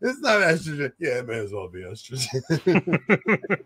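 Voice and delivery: words dissolving into a real laugh. Real, not acted. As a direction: crack up while explaining. Cracking up over estrogen joke.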